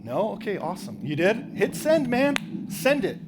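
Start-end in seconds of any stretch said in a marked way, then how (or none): 1.5-3.2 high, loud push to hit send; cheering a hesitant guy on; excited urging. Real, not acted. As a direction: egg him on to send it now. Urging audience member to send.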